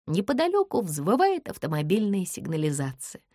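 usual speaking voice

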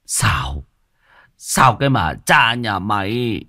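slow, heavy scolding; mild mock curse. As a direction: spit the rebuke slowly. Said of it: "ông Lý chửi". (chửi chậm rãi)

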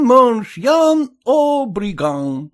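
Suzette's mock French exclamation; exclaiming Suzette. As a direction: call out like Suzette. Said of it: "Сюзетта говорила".

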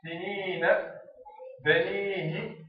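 teacher drawing out the long ī of سنين، بنيه; long-vowel demo. Shown as a demonstration. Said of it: "نعطيكم أمثلة في الكلمات".

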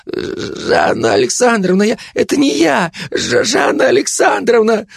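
high, wailing panicked plea. Acted. Кулебяка в панике причитает, умоляя Жанну, очень высоко. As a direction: wail her name in terror. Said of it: "запричитал Кулебяка".

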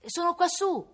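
high, loud call from above. A narrator's reading. Boy in a tree calls down to constables, shouting. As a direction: holler to be found. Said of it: "gridò Cosimo".

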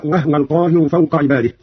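وهو said "wahwa", haa without a vowel; silent vowel on the haa. Shown as a demonstration. Teacher giving a similar example, وهو said as "wahwa". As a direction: close the h in وهو: "wah-wal". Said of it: "ومثلها قوله تعالى".

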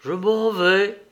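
high, effortful but distinct words; laboured dying murmur. A narrator's reading. Dying man telling his brother he is going, laboured. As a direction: force each word out of the chest. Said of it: "tirant à grand-peine les sons de sa poitrine".

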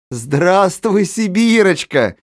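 high, slow, sugary greeting; a sly woman's overly sweet hello; as sweetly as possible. Acted. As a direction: greet the girl with forced sweetness. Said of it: "произнесла насколько можно ласковее".

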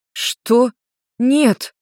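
indignant. A narrator's reading. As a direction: flare up at the accusation. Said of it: "возмутилась Тора".

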